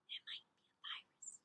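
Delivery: soft hushed whisper. A narrator's reading. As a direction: whisper it among the experts. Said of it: "huddled together and whispered".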